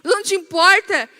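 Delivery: high, urgent pleading; mock-frantic reproach; panicked disciple. Disciple waking sleeping Jesus, panicked reproach. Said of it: "Já como já que te acorda assim".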